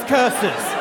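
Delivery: imitated cartoon-villain cry; Scooby-Doo villain. Dad cursing after hitting his shin, mock villain cry. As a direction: curse like a foiled cartoon villain. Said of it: "Like a Scooby-Doo villain".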